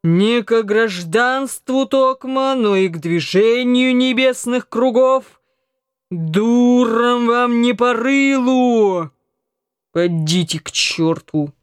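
put-on slow, slurred drunk bluster; drunken rant. A narrator's reading. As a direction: sneer like a drunk cadet. Drunk Anton continues.

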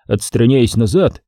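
ordinary delivery, nothing marked

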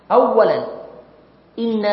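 ordinary delivery

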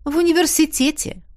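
defiant retort. A narrator's reading. Husband answers the director with defiance. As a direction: throw the answer back as a challenge. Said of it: "с вызовом отозвался тот".

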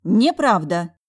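sharp, loud denial. Acted. Talya flatly denying she liked the kiss, loud. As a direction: fling the denial at him.

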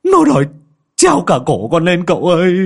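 high, loud terrified cry for help; cling and beg the young master to save him; panicked pleading. Acted. Lâm Sẹo kêu cứu cậu Tẩy. (hoảng hốt van xin cậu cứu mạng)

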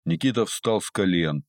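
ordinary delivery, nothing marked

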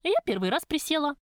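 выше и громче, с обидой; огрызнись обиженно; обиженный огрыз. Acted. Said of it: "обиженно огрызнулась Любка". (Любка обиженно огрызается на хозяина)

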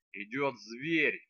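each word slow and deliberate; slow, measured. Acted. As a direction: spell it out very slowly, staring her down. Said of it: "медленно глядя ... отчеканил некромант". (медленно, чеканя каждое слово)

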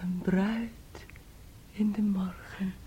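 soft unvoiced whisper. Niece whispering back the aunt's words. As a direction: let it fade on a breath. Dreamy hushed echo.

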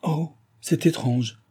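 slow, high-pitched astonishment; amazed exclamation; surprised. A narrator's reading. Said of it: "s'écria Philippe surpris".

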